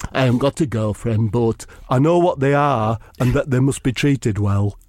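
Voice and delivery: a lightly voiced earnest loner. Keenan chips in, low.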